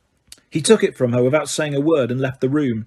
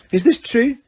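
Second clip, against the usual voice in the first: brisk, higher, stern McGonagall; snapped; 9 semitones higher, 4 dB louder than usual. A narrator's reading. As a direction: snap at the student. McGonagall rounding on him.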